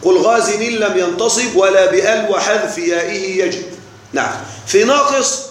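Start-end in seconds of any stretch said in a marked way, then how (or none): 0.0-3.6 verse recitation. Shown as a demonstration. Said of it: "قال".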